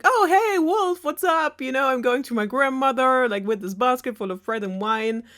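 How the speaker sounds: squeaky friendly greeting; naive cheerful girl. Retold or imitated. Red greeting the wolf, high bubbly voice. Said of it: "So she's like".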